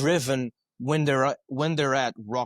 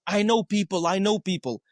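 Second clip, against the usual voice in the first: repeating coworker; 5 semitones higher than usual. Retold or imitated. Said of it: "him repeating over and over".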